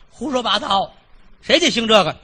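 high, loud indignant retort; the wife rejects her husband's excuse, high and loud. Acted. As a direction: snap back at him like a fed-up wife. Wife rebuking husband's nonsense.

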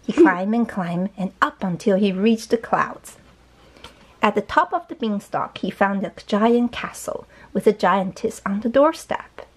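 slow, measured storybook reading; story narration. A narrator's reading. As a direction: read slowly to a young child. Reads the story aloud.

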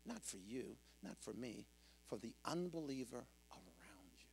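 low, soft pulpit murmur; subdued, confiding scripture delivery; hushed preaching. Real, not acted. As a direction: bring it right down, quiet and low. Hushed scripture before loud outburst.

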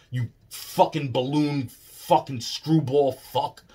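slow, drawn-out cursing, word by word; angry insult. Real, not acted. Cursing a man who left the public eye, slow angry contempt. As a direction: spit each insult out slowly. Ranting insults at absent Hoffman.

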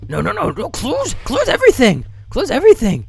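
panicked high cartoon yelp; Scooby voice. Real, not acted. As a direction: squeal it like a scared cartoon dog. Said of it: "Didn't mean to sound like fucking Scooby".

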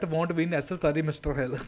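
imitating a thick Indian accent. Host parodying the cartoon doctor's accent, thick Indian accent. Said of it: "Too much Indian accent. That's something like".

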